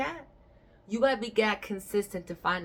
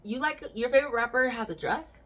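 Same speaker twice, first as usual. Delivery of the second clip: incredulous; 6 semitones higher, 3 dB louder than usual. Retold or imitated. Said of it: "I was like".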